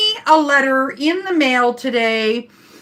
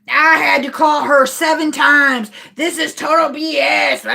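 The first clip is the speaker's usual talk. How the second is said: imitated indignant complaining; mock angry passenger. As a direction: gripe like a fed-up customer, retold. Retold angry passenger, she's like.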